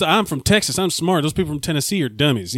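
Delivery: lightly mocked Texas accent; Southern US accent. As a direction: imitate a boastful Texan's Southern accent. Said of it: "someone from the South was like".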